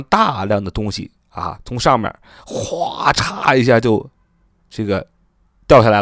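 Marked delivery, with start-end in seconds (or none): 2.5-3.5 drawn-out whoosh-and-crash "哗嚓"; imitated crashing downpour. Shown as a demonstration. Teacher showing a mass falling from above, drawn-out imitated crash. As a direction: stretch out the splash sound slowly. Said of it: "哗的一声，咔嚓一声".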